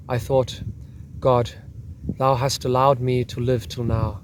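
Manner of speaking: put-on lightly done German accent, reading a soldier's account; measured reading in a mild German accent. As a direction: read it with a hint of a German accent. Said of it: "the German accent".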